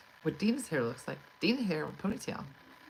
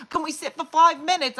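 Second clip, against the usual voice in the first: higher, louder begging orphan voice; pleading orphan; 12 semitones higher, 11 dB louder than usual. Retold or imitated. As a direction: ham it up like a pitiful little orphan. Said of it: "they're like orphans in".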